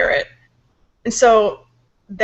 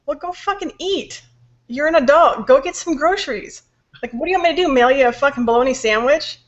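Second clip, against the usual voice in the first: higher-pitched exasperated rant; pissed off; 4 semitones higher than usual. Retold or imitated. Wife snapping back at hungry husband, pissed off. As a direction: scold him with annoyed disbelief. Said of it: "So now I'm getting pissed".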